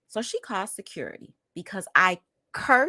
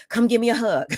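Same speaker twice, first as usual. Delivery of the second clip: higher-pitched imitation of mom; coaxing mother; 5 semitones higher, 4 dB louder than usual. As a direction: play mom calling for a hug. Voices mother asking for a hug.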